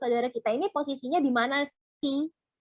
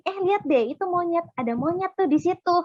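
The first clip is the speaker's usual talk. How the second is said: eager pointing; 5 semitones higher than usual. Shown as a demonstration. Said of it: "maksudnya nunjukin".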